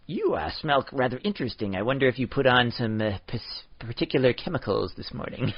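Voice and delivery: a hint of a prim, wordy gentleman; lightly put-on stiff politeness; overly formal extreme. Shown as a demonstration. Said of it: "these are the extremes".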